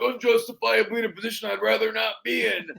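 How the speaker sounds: deadpan line to the camera; mock Macho Man line. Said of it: "I look at the camera, and I'm like".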